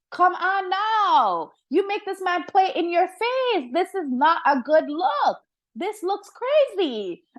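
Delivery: high, slow scolding big-sister lecture; scolding Tamar. Pretend. Commentator scolding Tamar as if she could hear, high and slow. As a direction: talk sense into her like a fed-up auntie.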